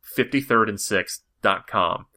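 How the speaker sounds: "fifty-third and sixth dot com" spelled out slowly, word by word; slow down so they can write down "fifty-third and sixth dot com"; slow and clear. Shown as a demonstration. Repeating the website address clearly.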